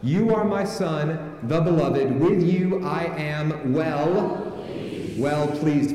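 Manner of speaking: very slow and deliberate; slow prompting recitation; fill-in-the-blank prompt. Shown as a demonstration. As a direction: stretch it out so the congregation joins in. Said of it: "fill in the blanks as I go".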